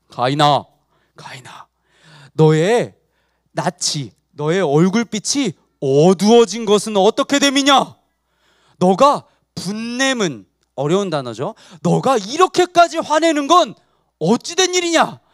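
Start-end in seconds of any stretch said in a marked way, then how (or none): 0.1-10.5 slow, weighty divine address with pauses; God speaking. Acted. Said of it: "하나님이 말씀하세요". 11.8-15.2 higher, emphatic divine questioning; God questioning. Acted. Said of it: "라고 하나님이 물으세요".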